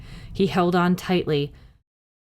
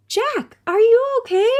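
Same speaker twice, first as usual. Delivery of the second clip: put-on much higher, louder little-girl call; Annie shouting; 5 dB louder than usual. A narrator's reading. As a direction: call down high from the treehouse. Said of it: "Annie called".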